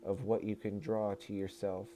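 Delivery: even, measured reading voice; book read-aloud. Acted. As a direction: deliver it as a formal message to listeners. Resumes reading channeled book.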